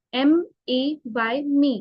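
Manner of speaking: मे said with a long drawn-out ए, after slowly spelling M ए Y; slow spelling, long vowel in मे; long a sound. Shown as a demonstration. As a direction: stretch the vowel in मे for students. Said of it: "ए को long sound बोलते हैं".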